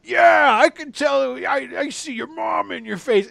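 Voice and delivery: high, loud, delighted shout of recognition; a burly barkeep thrilled to see an old friend's kid; joyful high shouting innkeeper; overjoyed barkeep. Acted.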